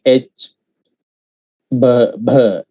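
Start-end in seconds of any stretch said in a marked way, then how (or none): 1.7-2.6 "B, B" each released with a puff of H; aspirated B. Shown as a demonstration. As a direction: say "B, B" as a breath-backed bh. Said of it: "add a little bit of H to it".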